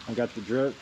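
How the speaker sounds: talking through a respirator mask; muffled by respirator. Real, not acted. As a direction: speak muffled behind a mask. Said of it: "I got my respirator on still".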